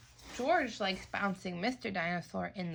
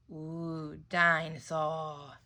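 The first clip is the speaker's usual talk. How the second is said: little George; 4 semitones lower, much slower than usual. Acted.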